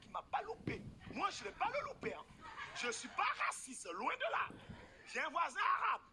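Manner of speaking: high-pitched gossipy impression; mock office gossip, swooping high; white woman colleague. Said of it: "Elle va appeler sa collègue".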